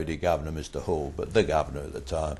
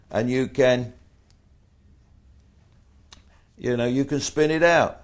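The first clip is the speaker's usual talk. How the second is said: high, loud conspiratorial push; gleeful urging; 8 semitones higher, 6 dB louder than usual. Retold or imitated. Inmate tells Ernie to drag out recovery, pitched up and loud. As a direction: spin the scheme with relish.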